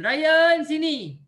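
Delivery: a mother calling her son over; sharp loud summons. Retold or imitated. Mother calling child by name.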